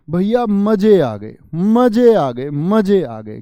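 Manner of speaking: excited exclaim. Shown as a demonstration. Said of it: "क्या बोलोगे?".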